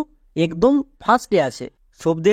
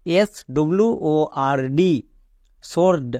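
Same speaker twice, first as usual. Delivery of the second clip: slow spelling; slower than usual. Shown as a demonstration. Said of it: "এখানেও ডব্লুর উচ্চারণ হচ্ছে না".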